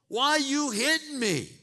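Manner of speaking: a fed-up donkey squawking back at his rider; indignant donkey. Acted. Beaten donkey complaining to Balaam, high and loud.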